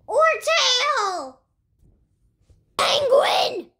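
excited whisper of the name. Pretend. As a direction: whisper it with glee.

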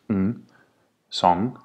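"ng" and "song" with one nasal ng; ng demo; one ng sound. Shown as a demonstration. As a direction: end "song" on a single ng. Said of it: "the sound there is N G".

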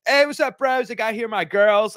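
imitating a Logan Paul type influencer greeting fans; mock influencer. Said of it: "Logan Paul type influencer going".

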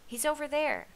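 high, loud excited call; shout. A narrator's reading. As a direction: shout it out with pitch jumping up. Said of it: "shouted Kanza".

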